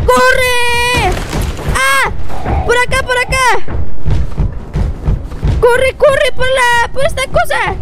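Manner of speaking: panicked high yelling while fleeing; being chased. Real, not acted. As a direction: scream and run, terrified. Fleeing again, yelling "corre.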